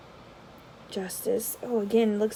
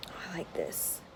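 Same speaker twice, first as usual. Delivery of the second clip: whisper; 5 semitones lower, 17 dB quieter than usual. Real, not acted. Quiet remark on card.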